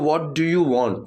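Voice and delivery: each word spelled out very slowly; slow model sentence. Shown as a demonstration. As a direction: say it word by word for learners. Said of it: "main word आया what do". (बहुत धीरे, एक-एक शब्द)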